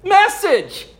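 high and loud, laughing through the words; giddy laughing narration; laughing telling. Real, not acted. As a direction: still laughing as you tell it.

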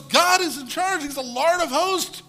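loud, high, slow triumphant declaration; a champion proclaiming his God over the fallen giant. Retold or imitated. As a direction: ring it out like a victory proclamation. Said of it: "He goes".

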